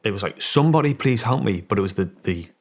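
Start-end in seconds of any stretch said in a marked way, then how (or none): 0.4-1.6 desperate plea. Retold or imitated. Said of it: "the tone, the frequency".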